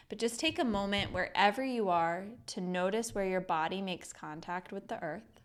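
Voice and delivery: measured meditation guide with long pauses; guided meditation. Acted. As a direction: lead them gently through each breath, drawing out the words. Leads a breathing meditation.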